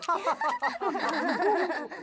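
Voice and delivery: cheeky chuckle at the prank; pleased giggle; mischievous laugh. Acted. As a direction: laugh at the joke. Elf laughing at his prank.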